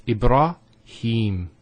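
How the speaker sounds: Ibrahim slowly with long vowels; slow drawn-out. Shown as a demonstration. Teacher slowly modelling Ibrahim. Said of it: "elongation of the E sound".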